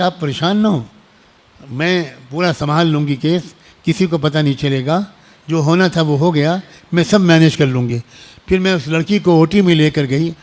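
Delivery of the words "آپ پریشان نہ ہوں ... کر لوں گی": softer, hushed reassurance; calm the fainted mother quietly, just between us; reassuring. Retold or imitated. Doctor quietly reassures the shocked mother, soft and calming. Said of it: "اور ان سے کہا کہ".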